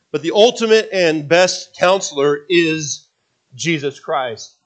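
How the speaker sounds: measured preaching emphasis. Real, not acted. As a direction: lean into it like a preacher. Pastor building to key point.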